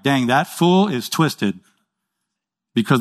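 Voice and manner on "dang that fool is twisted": drawn-out, slow mock verdict on a fool; slow judging aside. Preacher mocking an evil person, slow and dry. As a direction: savour it slowly, dry and knowing. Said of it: "and I'm like".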